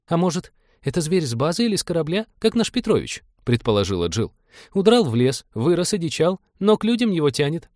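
high-pitched female character voice, speculating; high, musing character; young woman crew member. A narrator's reading. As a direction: float a theory in a high voice.

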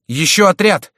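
high, loud alarm; alarmed cry. A narrator's reading. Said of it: "вскричал прибежавший монах". (тревожный крик)

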